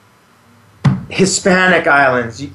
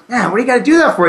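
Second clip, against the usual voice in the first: quick, higher mock complaint; lightly voiced surfer buddy, higher and fast; retold friend's complaint; 6 semitones higher, much faster than usual. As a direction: rattle off a friend's scolding. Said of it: "he goes".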